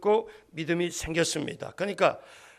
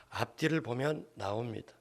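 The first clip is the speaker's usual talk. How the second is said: ordinary talk, nothing marked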